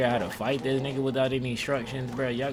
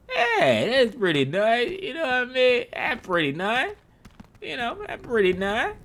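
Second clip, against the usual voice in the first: much higher, louder, laughing through it; 14 semitones higher, 5 dB louder than usual. Pretend. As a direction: gush in a silly high laughing voice. Admiring the weird area laughing.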